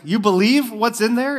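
a guy on a plane asks the woman, hammed-up disbelief; incredulous guy. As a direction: pitch it up like a stunned stranger. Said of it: "And he's like".

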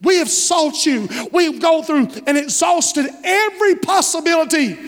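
a parent's mildly anguished complaint; pained reproach. Acted. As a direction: plead with a touch of pain. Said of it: "it really means with pain".

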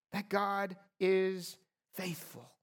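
usual speaking voice

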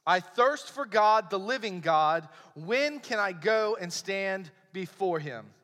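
measured, emphatic psalm reading; scripture reading. Acted. Preacher reads a psalm to the congregation, measured scripture reading. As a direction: read it out deliberately, phrase by phrase.

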